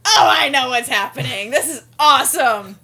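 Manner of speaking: loud, high, gleeful realisation; thrilled. Retold or imitated. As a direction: burst with delight, loudly. Retells thrilled reaction.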